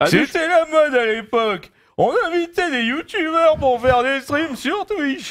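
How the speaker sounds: put-on slow, drawn-out old cartoon grandpa voice. Going through a list of requested impressions, the speaker does a Grampa Simpson voice.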